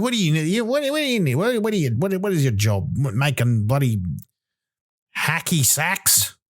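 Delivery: rising disbelief, spluttering over hacky sacks; incredulous rant. Retold or imitated. Comic ranting at a hacky-sack maker, pitch shooting up. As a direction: pitch climbing high on "what do you need", mock outrage.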